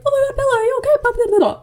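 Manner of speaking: high, loud fretting husband; hammed-up frantic concern; mock panic. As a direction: gush worry in a high mocking voice. Voicing worried husband after nightmare.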